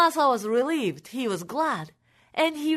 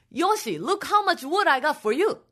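mild shout; 5 semitones higher than usual. Acted. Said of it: "Masa shouted".

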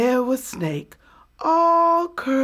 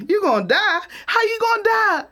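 incredulous rabbit; 11 semitones higher than usual. Acted. Rabbit surprised.

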